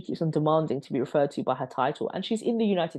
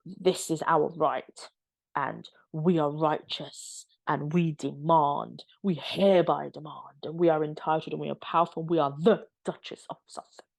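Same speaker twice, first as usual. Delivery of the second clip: mock entitled royal. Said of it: "very Harry and Meghan".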